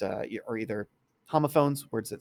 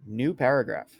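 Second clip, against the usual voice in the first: dictating; 2 semitones higher, 4 dB louder than usual. Shown as a demonstration. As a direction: call the command out to the computer. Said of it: "You can also do things like".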